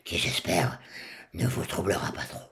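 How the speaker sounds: airless voice with no vocal cords; rasping, half-whispered voice; duck voice. Real, not acted. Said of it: "J'ai une voix de canard, effectivement".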